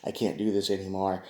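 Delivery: soft, defeated sigh of a line; exhausted quote. Retold or imitated. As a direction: let it drain out quietly, worn down. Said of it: "that's gonna be like".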